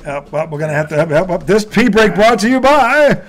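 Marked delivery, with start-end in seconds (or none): 1.5-3.2 mock-posh English announcer voice, high and grand; English accent. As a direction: play a British host announcing a break. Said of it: "I don't know why I'm speaking in an English accent".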